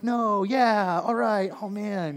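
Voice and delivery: high, loud, slow flustered reaction; mixed excitement. Retold or imitated. Pastor reacting to his friend's calling, high, loud and flustered. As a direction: caught between joy and loss. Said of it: "it was kind of a".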